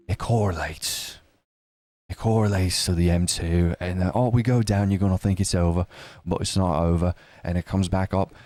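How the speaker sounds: mock influencer spiel. Mocking a crypto influencer's spiel.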